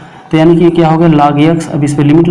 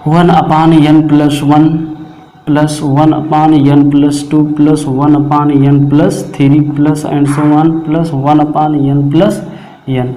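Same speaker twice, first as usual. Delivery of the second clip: reading the formula out slowly, word by word; slow dictation; much slower than usual. Acted. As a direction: spell it out slowly so the class can write it down. (धीमे-धीमे बोलकर लिखवाना)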